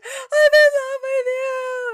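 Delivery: loud, high, hammed-up declaration; mock love confession. Love confession on training field.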